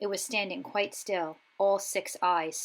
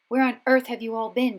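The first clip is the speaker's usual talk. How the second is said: scolding portrait; 5 semitones higher, 9 dB louder than usual. A narrator's reading. Fat Lady scolds the students.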